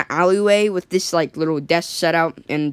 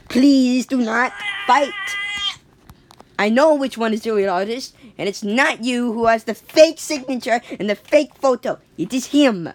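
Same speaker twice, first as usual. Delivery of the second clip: Jack trying a fake French accent badly; 6 semitones higher than usual. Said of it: "he still doesn't know how to have an accent".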